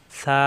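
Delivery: সা softly, tongue tip at upper teeth edge; a soft lisped th-like সা; soft articulation. Shown as a demonstration. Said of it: "নরম করে উচ্চারণ, জিহ্বার আগা".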